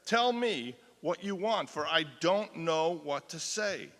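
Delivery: loud slow pleading, near a scream; anguished cry. Acted. A woman on the rack begging her torturers, loud and slow. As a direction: plead slowly and loudly as if in pain. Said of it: "And then she screamed and said".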